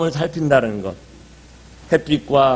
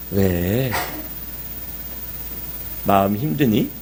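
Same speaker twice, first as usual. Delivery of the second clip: gentle asking; 4 semitones lower, 5 dB quieter, slower than usual. Retold or imitated. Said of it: "그렇게 얘기하니까".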